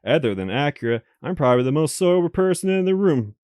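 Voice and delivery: even visual-novel reading voice; story narration. Acted. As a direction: narrate the game text steadily. Reads game narration aloud.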